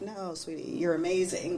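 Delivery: soft, reassuring to a daughter; tender reassurance. Retold or imitated. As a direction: comfort her gently. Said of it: "I was telling her".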